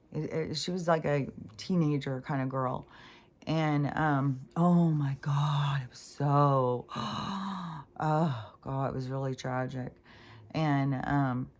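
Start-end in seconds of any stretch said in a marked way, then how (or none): 4.6-9.9 real distress. Real, not acted. Recalling girl's death.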